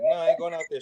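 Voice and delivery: high pitched mock kid refusal; high mock whine; kid refusing. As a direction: squeak out the refusal like a sulky kid. Himself as kid, retold.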